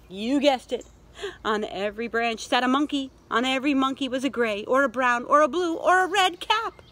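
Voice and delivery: picture-book reveal, climbing through the list; story narration. A narrator's reading. Revealing the monkeys in the tree, animated storytelling. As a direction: build steadily to the last item.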